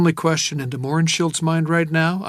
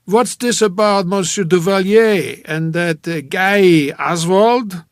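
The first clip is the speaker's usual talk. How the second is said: slow, booming, higher-pitched curiosity; cheerful curiosity; 5 semitones higher, 9 dB louder, slower than usual. A narrator's reading. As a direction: ask it big and cheerful, without worry. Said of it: "no worry in his voice, just cheerful curiosity".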